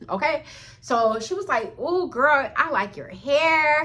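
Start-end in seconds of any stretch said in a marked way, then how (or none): 1.8-3.8 higher, drawn-out gushing compliment; seemingly genuine compliment. Retold or imitated. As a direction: imitate a girl sweetly praising a friend. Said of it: "she seemed so genuine".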